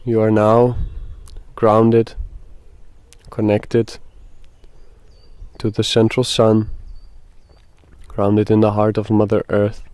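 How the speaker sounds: measured meditation guide, long pauses between phrases; guided meditation. Acted. Guide asks listeners to breathe and settle, guided meditation. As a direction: lead them gently through it, leaving space.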